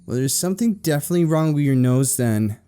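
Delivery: prim, defensive retort; stiff reply. A narrator's reading. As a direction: answer huffily and stiffly. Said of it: "Lisa replied stiffly".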